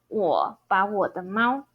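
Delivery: low 我, rising 把, then low 我; opening third tone. Shown as a demonstration. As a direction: say the first 我 of 我把我 as a low dipping third tone. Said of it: "I wanna pronounce it third tone".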